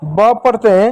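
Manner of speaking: put-on slow, puzzled child asking about ए and अ; voicing a child's question. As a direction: ask it slowly like a confused pupil. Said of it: "child's question voiced".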